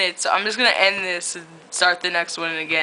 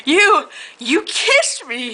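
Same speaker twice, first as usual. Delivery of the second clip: mild angry; 8 semitones higher, much slower than usual. Acted. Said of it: "he said angrily".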